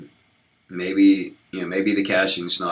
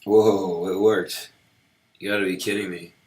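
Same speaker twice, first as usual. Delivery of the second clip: surprised; 4 dB louder than usual. Real, not acted. Command unexpectedly succeeds.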